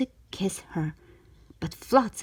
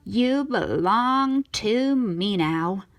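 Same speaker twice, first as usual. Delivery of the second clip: slow, mild gloat of a sea witch; 3 dB louder, slower than usual. Acted. Ursula gloating over Ariel at sunset, slow. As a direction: savour owning her. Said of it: "gloated Ursula".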